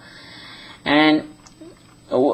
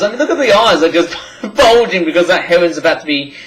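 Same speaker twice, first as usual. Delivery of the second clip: real laugh breaking into the words; amused laughing; 2 semitones higher than usual. Real, not acted. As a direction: talk through a giggle, pitch lifting. Amused by the bird's bulging eyes.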